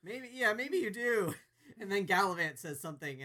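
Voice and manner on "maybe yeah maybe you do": Uncle Keith. Retold or imitated. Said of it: "Uncle Keith is like".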